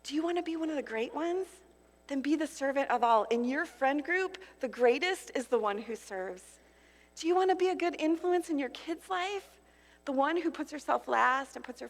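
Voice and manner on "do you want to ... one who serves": a hint of a kind, inviting Jesus; gently invite, lightly voiced; Jesus' gentle voice. Preacher giving Jesus' voice to the congregation, lightly gentle. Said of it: "His voice sounds more like this".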